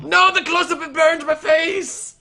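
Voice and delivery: very high-pitched, drawn-out wail; hammed-up falsetto cry of horror; mock horrified shriek. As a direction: squeal in pretend agony, stretching the last words. Mock horror at a camera close-up.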